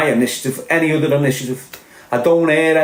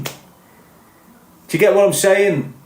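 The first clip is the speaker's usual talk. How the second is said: slow, much higher, stretched-out question; drawn-out challenge; 7 semitones higher, much slower than usual. Real, not acted. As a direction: drag it out high to drive the point home. Rhetorical challenge to viewers.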